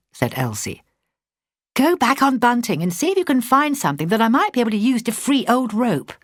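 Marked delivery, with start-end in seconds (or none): 1.7-6.1 urgently. A narrator's reading. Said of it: "Dorothy said urgently".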